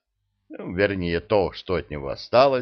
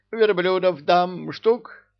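haggling emir voice; 10 semitones higher, 4 dB louder, slower than usual. Acted. Emir haggling, high and far.

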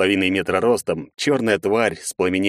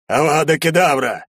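loud higher spell chant; spell incantation; 7 semitones higher, 4 dB louder than usual. Acted. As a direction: cast it dramatically. Major casts spell.

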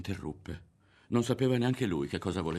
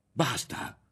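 high, raised-voice outcry; shouted protest; 7 semitones higher, 3 dB louder, slower than usual. A narrator's reading. Ario rejects Berto's accusations, shouting. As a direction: cry out against the accusation. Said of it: "gridò Ario".

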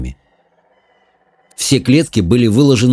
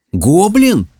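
much higher startled echo; astonished; 10 semitones higher than usual. Acted. Simon learns the caged thing is a goblin and exclaims. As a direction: catch the word in disbelief. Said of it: "воскликнул Саймон".

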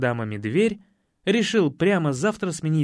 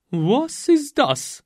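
slow, higher stammered German; babbling; 8 semitones higher, 4 dB louder, much slower than usual. Acted. Анна в испуге лепечет по-немецки — робкий растерянный лепет. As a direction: falter it out in shock. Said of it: "по-немецки пролепетала Анна".

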